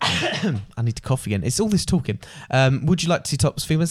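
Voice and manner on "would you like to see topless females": fast, rattled-off tout line; quick club rep pitch. Retold or imitated. A lightly voiced tout rattling off his usual pitch to tourists. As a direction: fire off the pitch like a routine. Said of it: "That happened a lot".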